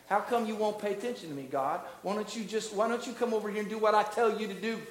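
mildly nagging, hurried complaint to God; mock demanding prayer. Worshipper ordering God to come over here, mock demanding. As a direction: imitate a petulant, bossy prayer. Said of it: "That's the way we pray the prayer".

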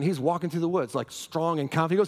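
usual speaking voice

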